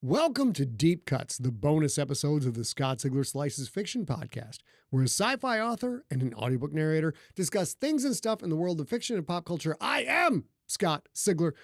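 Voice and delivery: showy scripted intro, slowing for the key names; podcast announcer. Acted. Host welcoming listeners to bonus episodes, announcer style. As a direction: announce the show and yourself with flourish.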